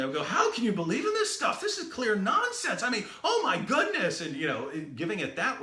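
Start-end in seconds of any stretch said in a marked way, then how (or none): 0.2-4.2 high, loud exasperated scorn; mock-outraged dismissal, much higher and louder; forceful scornful. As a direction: blast the argument with disbelief. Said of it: "I would present it differently".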